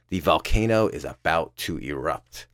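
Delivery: low, slow smugness; quietly self-satisfied, drawn out; smug. Retold or imitated. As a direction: savour it smugly, taking your time. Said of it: "sounding as smug as a Jim Halpert".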